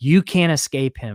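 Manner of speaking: ordinary talk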